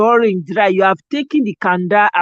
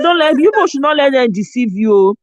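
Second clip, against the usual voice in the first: warning; 5 semitones higher, 4 dB louder than usual. Retold or imitated. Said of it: "I said".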